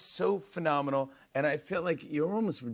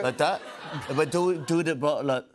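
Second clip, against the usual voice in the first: botched, halting Brummie attempt; laughing, garbled Birmingham imitation; attempted Birmingham accent. Shown as a demonstration. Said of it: "worried you're having a stroke".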